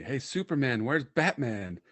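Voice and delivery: high, loud call-out to a stranger; imitated yell. Some guy yelling at him off tracks, imitated high yell. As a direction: holler it like a heckling passerby. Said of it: "some guy yells at me".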